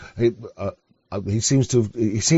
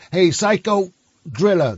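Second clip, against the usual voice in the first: slower American-accent imitation; 2 semitones higher, slower than usual. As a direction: lightly mimic an American saying it. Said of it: "'cause that's how Americans say it".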